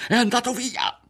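high excited cry. A narrator's reading. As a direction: burst out with relief. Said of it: "ebbero un grido". (grido alto e concitato)

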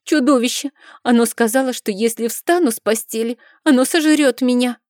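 put-on a boy terrified of the monster; blurted in fright. A narrator's reading. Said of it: "выпалил испуганным взором".

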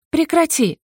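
a touch of hysteria, pitched high; slightly hysterical demand. A narrator's reading. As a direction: she demands he stop, a little hysterically. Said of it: "немного истерично потребовала она". (немного истерично, высоко)

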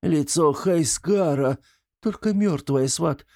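hammed-up ghost-story telling, slow; theatrical hushed horror; loud tragic whisper. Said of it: "громким трагическим шёпотом ответил Артём".

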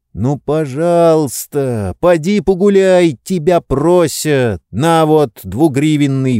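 high, slow coaxing plea; pleading. Acted. Oblomov begging Zakhar, pleading. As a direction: beg him, coaxing.

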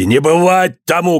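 медленно, выше, властно; отрезать с гневом; гневный крик. A narrator's reading. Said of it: "кричал Иван". (отец кричит, запрещая свадьбу)

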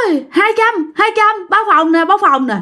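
very high sing-song hawking; cheeky hustler call. Retold or imitated. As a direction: keep teasing with the room call. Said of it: "nó nhây mà, cho nên nó nói".

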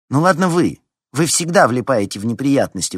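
loud, high-pitched indignation; indignant. A narrator's reading. Larisa complaining to her classmates, indignant. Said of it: "возмутилась Лариса".

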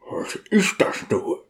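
whispered, puzzled thought; voiceless whisper of inner confusion; bewildered thought. A narrator's reading. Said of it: "dachte der Diakon".

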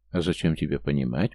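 usual speaking voice

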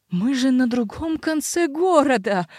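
slow, howling helpless fury; sputtering foiled villain. Acted. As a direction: wail it in impotent rage. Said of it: "взвыл Родерик в бессильной ярости". (бессильная ярость)

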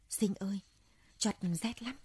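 put-on a frail child whimpering she is cold; feeble little girl. Dying little sister calls brother.

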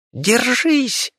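high squeaking rodent voice; squeaky rat cry. Acted. The rat calls to Viki as he rushes to help, high squeak. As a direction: squeal it like a little rat rushing in. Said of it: "пропищал грызун".

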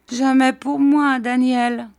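high, loud self-pitying wail in words; plaintive lament. A narrator's reading. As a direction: refuse comfort in a high, woeful voice. Gummidge refuses comfort, lamenting.

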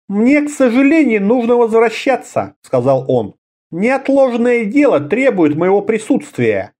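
a hint of the wizard taking his leave; wizard Amanar. A narrator's reading.

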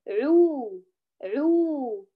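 ع followed by a fully rounded short u; demonstrating ʿu. Shown as a demonstration. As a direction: voice عو with the lips rounded well. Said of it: "كيف يقرأ؟".

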